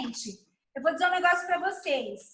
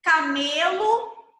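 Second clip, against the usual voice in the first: slow, drawn-out camelo with a rising end; stretched demo word; 3 dB louder, much slower than usual. Shown as a demonstration. Teacher models camelo slowly for the child. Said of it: "Aí ele tem que falar".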